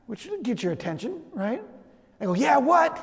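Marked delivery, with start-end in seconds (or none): 2.3-3.0 mock startled, higher-pitched reply; startled awake. Dad answers the daughter who woke him, mock startled. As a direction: answer as if jolted out of sleep.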